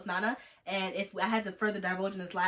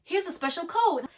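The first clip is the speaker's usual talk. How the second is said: very high, loud mock excitement; imitated joyful announcement; 12 semitones higher, 5 dB louder, slower than usual. Facebook telling her they believe her, mock-excited announcement. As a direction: sing out the rescue, high and delighted.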